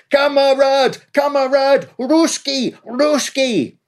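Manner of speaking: high, pleading repeated shouts; surrender cries. A narrator's reading. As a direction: beg not to be shot. Prisoners surrendering after blast.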